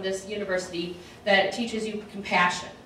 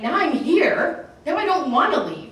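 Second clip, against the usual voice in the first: mock whiny sadness; 7 semitones higher, 4 dB louder, slower than usual. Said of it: "'Cause I'm like".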